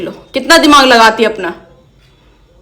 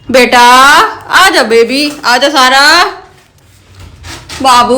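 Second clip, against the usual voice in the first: sweet calling; 2 semitones higher, 3 dB louder, much slower than usual. Real, not acted.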